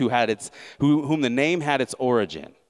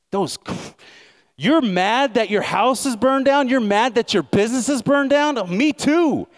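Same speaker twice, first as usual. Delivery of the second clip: high, loud scheming emperor; mock Nero voice; 9 semitones higher, 4 dB louder than usual. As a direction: whip up the crowd as Nero. Voicing Nero stirring crowd.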